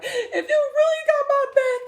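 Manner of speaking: hammed-up high, loud, crying rant; tearful cussing out. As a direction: re-enact a furious, sobbing ultimatum to God. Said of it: "just cussed out God".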